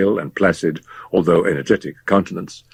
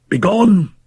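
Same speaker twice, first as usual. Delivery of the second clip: high, louder, final dismissal; commanding shout; 14 semitones higher, 5 dB louder than usual. Acted. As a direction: drive him out with one word. Fettes dismisses the doctor.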